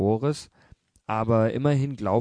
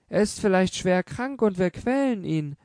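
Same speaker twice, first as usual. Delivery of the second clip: tearful mother; 8 semitones higher than usual. A narrator's reading. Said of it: "rief die Mutter schon unter Weinen".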